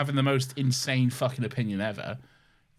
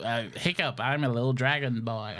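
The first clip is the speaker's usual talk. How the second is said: lightly voiced Hiccup, Jay Baruchel style; a hint of a nerdy teen dragon boy; Hiccup impression. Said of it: "your impression".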